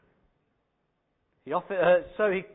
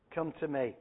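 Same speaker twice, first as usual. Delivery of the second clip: lower, softer echo of "Come to me"; softer repeated invitation; 4 semitones lower, 5 dB quieter than usual. Retold or imitated. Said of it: "Jesus says to her".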